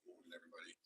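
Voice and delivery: very soft, barely voiced greeting; talking comfortably. Shown as a demonstration. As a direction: mellow hello with no projection. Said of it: "I'll be able to talk comfortably".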